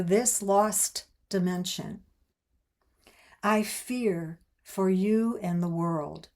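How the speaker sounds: deliberate book reading with weighted key words; reading aloud. A narrator's reading. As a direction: read it out in measured, separated phrases. Reads the closing excerpt aloud.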